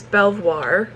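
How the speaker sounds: Belvoir as BELV-wahr, r sounded; assumed pronunciation. Shown as a demonstration. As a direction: say Belvoir French-style with an American r. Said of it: "what I thought was".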